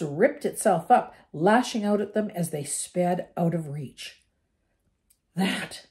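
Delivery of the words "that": out of breath; panting. Acted. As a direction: gasp it between breaths. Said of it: "panted Ron".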